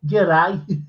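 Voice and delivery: lightly attempted Australian greeting; butchered Australian accent. Imitating someone's botched greeting, butchered Australian accent. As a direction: have a poor go at Australian. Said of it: "Absolutely butchered that accent, Frank".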